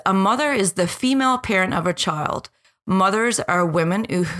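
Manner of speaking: h sounds dropped in 'who'. Real, not acted. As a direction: drop the h's while reading. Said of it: "sorry, I'm dropping my H's now".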